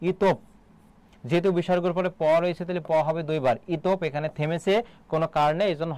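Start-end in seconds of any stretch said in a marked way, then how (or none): 0.1-0.4 ইতপ closed on a held "p"; pronunciation demo. Shown as a demonstration. Teacher shows students how visarga sounds, ইতপ with closing p. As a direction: say ইতপ, stopping on the doubled p. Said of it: "দেখো, উচ্চারণটা".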